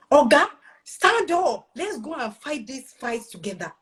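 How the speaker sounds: retold rousing call to arms, starting high; rallying call. Wife rallying her chill husband to fight together, rousing. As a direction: urge your partner up to fight, drawn-out opening.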